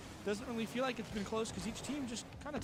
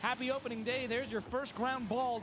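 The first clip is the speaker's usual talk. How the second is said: excited; 4 semitones higher than usual. Real, not acted. Celebrating goal call.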